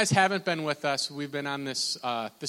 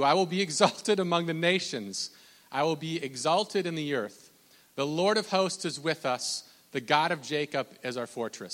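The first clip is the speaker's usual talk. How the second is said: preach. Acted. Reads scripture.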